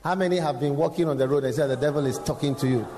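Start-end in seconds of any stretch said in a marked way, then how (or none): 1.7-2.9 loud mocking accuser; devil taunting. Devil mocking a preacher among shepherds, loud taunt. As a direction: jeer it out as the devil.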